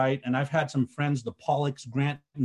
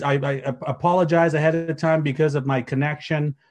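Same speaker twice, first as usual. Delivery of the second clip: talking over chime sounds; over notification pings; 5 dB louder than usual. Real, not acted. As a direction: speak through incoming pings. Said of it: "I apologize for the dings that are coming through".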